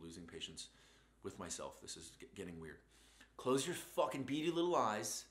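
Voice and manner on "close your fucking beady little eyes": lightly voiced drill instructor, slow and firm; a hint of a drill sergeant barking. Giving the listener a drill instructor order, with light mock sternness. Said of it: "That was a drill instructor line".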